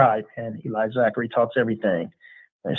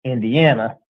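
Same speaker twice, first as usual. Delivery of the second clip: a plain Midwest Indiana reading of "Indiana"; Indiana accent; slower than usual. Shown as a demonstration. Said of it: "with my Indiana accent".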